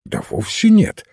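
high, quick-spirited denial; lively reply. A narrator's reading. Finz answers the priest's question about the doctor, lively. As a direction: answer with a lively lift in pitch. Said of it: "живо отозвался Финц".

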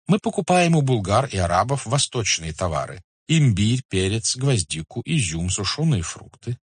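lightly voiced merchant, lively and courteous; купец-ганзеец. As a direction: present your trade proudly to a khan. (слегка сыгранный учтивый купец)

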